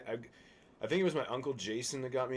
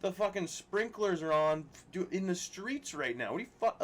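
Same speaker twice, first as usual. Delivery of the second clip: retold outraged protest; 9 semitones higher, 5 dB louder than usual. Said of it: "I'm like".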